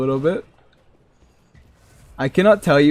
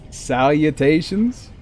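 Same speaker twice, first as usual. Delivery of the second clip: mocking question; slower than usual. Shown as a demonstration. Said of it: "only the nerdiest of the nerds ever say salutations".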